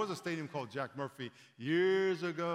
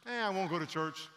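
indifferent churchgoer; 4 semitones higher than usual. Pretend. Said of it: "some of us have that relationship".

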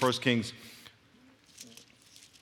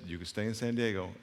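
soft, lower, understated answer; simply said; 4 semitones lower, 8 dB quieter than usual. Retold or imitated. Preacher retells God's answer to his prayer, quiet and simple. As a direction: imitate a still voice answering quietly. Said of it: "He said it, like, once or twice".

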